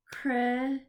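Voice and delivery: Kristen split into "Kris", pause, "ten"; syllable by syllable. Shown as a demonstration. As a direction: clap out Kristen with a clear gap between syllables. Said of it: "we are gonna clap the syllable".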